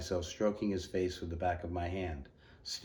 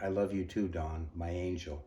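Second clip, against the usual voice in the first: croaking. Acted. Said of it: "smiled and croaked".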